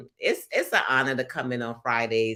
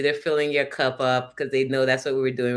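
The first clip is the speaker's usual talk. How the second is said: normal talking voice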